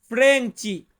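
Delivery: crisp ফ্রেঞ্চি; Portuguese word. Shown as a demonstration. Teacher models ফ্রেঞ্চি for students, careful Portuguese. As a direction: say ফ্রেঞ্চি as frente, FREN-chee. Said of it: "Portuguese ভাষাতে বলতে হবে".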